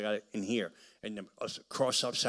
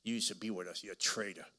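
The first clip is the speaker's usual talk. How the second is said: muttered demon voice; 2 semitones lower, 7 dB quieter than usual. Retold or imitated. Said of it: "Demons manifest".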